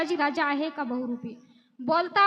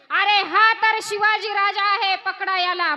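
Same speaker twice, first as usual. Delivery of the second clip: louder excited cry of discovery; soldiers shouting; 4 dB louder than usual. Acted. Enemy soldiers spotting the king, calling out loudly. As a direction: call out as if you just caught the king. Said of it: "माणसं म्हणतायत असं".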